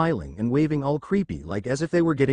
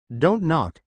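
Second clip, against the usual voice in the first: a mild nervous plea, "please" lifted higher; pleading; 3 semitones higher, much slower than usual. Acted. The frightened satyr begs his friends at the door, pleading. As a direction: beg them not to knock. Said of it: "Grover pleaded".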